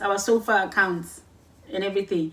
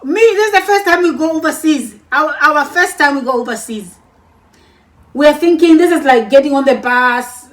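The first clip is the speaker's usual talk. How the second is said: excited; 4 semitones higher, 8 dB louder than usual. Real, not acted. Excited recalling first trip overseas.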